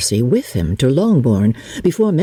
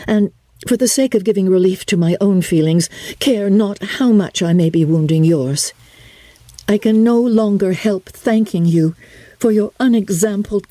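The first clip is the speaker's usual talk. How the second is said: higher, earnest voice, pressing on with courage; earnest young woman; 6 semitones higher than usual. Acted. Elizabeth thanking Darcy for helping her sister: higher earnest voice. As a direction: speak up bravely, words tumbling out gratefully.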